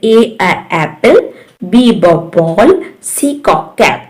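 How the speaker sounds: letter name, then its sound, then word, as in "A, a, apple"; phonics demonstration. Shown as a demonstration. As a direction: say "A, a, apple" in separate phonics steps. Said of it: "इस तरह से".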